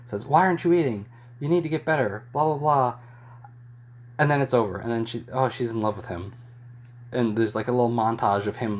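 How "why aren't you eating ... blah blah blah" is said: raised-pitch imitation of a mild telling-off; half-hearted retold scolding, higher voice; mock scolding. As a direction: scold lightly, retelling someone else's nagging. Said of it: "and scolds her".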